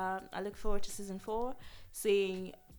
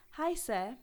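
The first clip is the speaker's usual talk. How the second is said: put-on kid brother voice; 11 dB louder, slower than usual. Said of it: "It was".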